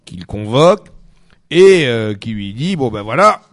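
put-on failed Russian accent sliding into Belgian; half-Russian half-Belgian accent; botched Russian accent. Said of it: "un mix d'accent belge, d'accent russe qu'il arrive pas à faire". (mauvais accent russe mâtiné de belge)

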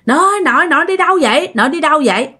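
high retold calling after grandma. Grandson calling after grandma in a dream, high retold call. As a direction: call after her, rising and urgent. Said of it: "con kêu quá trời luôn".

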